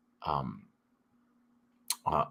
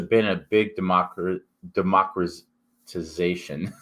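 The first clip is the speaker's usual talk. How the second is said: thick-tongued, slow slurred words; swollen tongue. Real, not acted. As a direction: talk around a swollen tongue. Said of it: "my mouth is swollen up".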